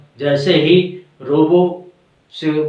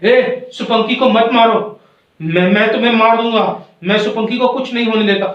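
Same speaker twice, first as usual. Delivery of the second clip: higher-pitched acted warning; hurried, protective outburst; defiant protest; 4 semitones higher than usual. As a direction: warn off the attacker urgently. Acted spirit confronts attacking bat.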